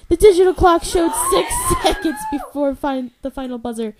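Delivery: high, loud, building to a shout; sports excitement. Acted. Narrating the final buzzer like a hyped sports announcer. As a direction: call it like the last seconds of a game. Reading climax of basketball game.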